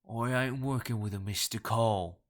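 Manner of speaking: slow, rough, guttural Cockney denial; barked Cockney. A narrator's reading. Caller denying the accusation, barking in Cockney. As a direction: bark it in thick Cockney. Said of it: "Brown barked".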